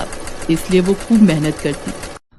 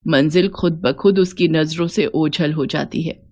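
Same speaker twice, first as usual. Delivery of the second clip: a hint of a loving mother-in-law blessing her; gentle mother-in-law; 3 semitones lower than usual. Mother-in-law encourages daughter-in-law.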